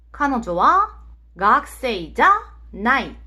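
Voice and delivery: slow, word-by-word Japanese example; careful teacher's demonstration, drawn out; slow model sentence. Shown as a demonstration. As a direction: model it slowly for learners, phrase by phrase.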